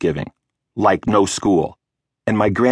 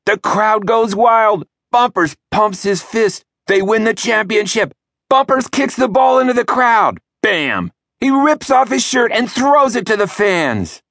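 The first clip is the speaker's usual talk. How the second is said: breathless, much higher play-by-play of a dream goal; sports commentary; 13 semitones higher than usual. Pretend. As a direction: call the match like a thrilled TV announcer.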